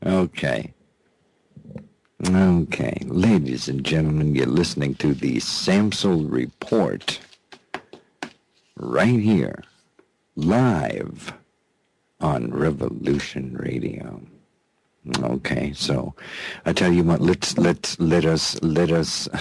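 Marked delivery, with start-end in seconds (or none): 3.1-14.2 low, measured station ident, drawing out key words; radio announcer. Acted. Host reintroducing his show to radio listeners, announcer style. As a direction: announce the show with pauses for weight.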